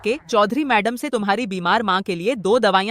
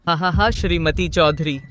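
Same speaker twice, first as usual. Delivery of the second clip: gloating villain laugh; 4 semitones lower than usual. Acted.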